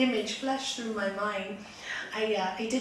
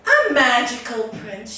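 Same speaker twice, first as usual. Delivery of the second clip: loud, drawn-out echo of astonishment; storyteller's wife, loudly astonished; amazed wife; 13 dB louder, slower than usual. Acted. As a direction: repeat it in big, slow amazement.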